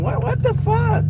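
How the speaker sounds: very high shrill mock lady; imitating the lady. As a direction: squeal it like the shocked lady. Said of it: "Like, with a cigarette".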